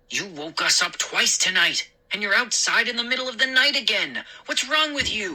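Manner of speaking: rising, hurried telling-off; exasperated scolding. Acted. Father scolding son woken house twice, exasperated. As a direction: build from stern to high exasperation.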